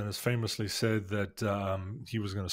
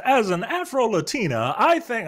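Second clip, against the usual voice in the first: mock politician; 10 semitones higher, 7 dB louder than usual. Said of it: "she says".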